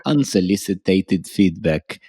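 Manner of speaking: slow, heavy fake Russian take on the phrase; teasing the host in a bad Russian accent; mock Russian accent. Cohost jokes in a mock Russian accent. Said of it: "Is that a Russian accent?".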